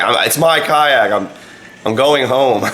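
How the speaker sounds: high mock yell to be heard over wind; retold scream. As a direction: re-enact shouting back at someone far off, volume held in. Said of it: "I'm screaming as loud as I can".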